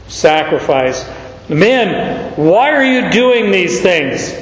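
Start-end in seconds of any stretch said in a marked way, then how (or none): 1.5-4.3 Men, why are you doing these things said with strong emphasis; emphatic. Acted. Preacher voicing the apostles to the crowd, emphatic. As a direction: press the question home.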